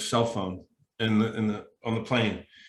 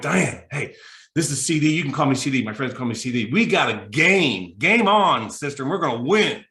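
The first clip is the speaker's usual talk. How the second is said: enthusiastic; 3 dB louder than usual. Retold or imitated. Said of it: "can sense my enthusiasm".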